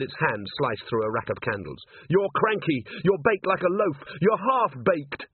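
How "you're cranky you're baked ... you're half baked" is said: taunting. A narrator's reading. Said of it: "Angua taunting the golem".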